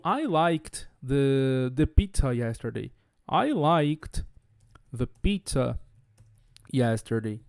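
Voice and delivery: slow, low example, LIKED ending in KT. Shown as a demonstration. Teacher giving an example sentence, slow, LIKED with a T. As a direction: spell out the phrase slowly, T audible in LIKED. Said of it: "como se eu colocasse um T ali".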